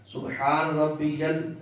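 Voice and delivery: "سبحان ربی جل" slow, يا joined into the لام; slow teaching recitation; careful recitation demo. Shown as a demonstration. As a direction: chant "سبحان ربی جل" slowly, landing on the لام. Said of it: "اس لام کے ساتھ ملانا ہے".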